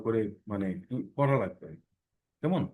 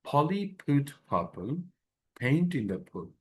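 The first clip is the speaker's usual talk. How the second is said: slow tongue twister; much slower than usual. Shown as a demonstration. Teacher reading the tongue twister slowly for the class. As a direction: Polly put purple paint in the pool, each p spelled out very slowly. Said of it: "এটা বারবার বললে কি হবে দেখেন".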